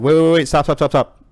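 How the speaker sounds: panicked pleading shout. Retold or imitated. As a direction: yell it fast, desperate to halt the shooting. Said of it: "And he's like".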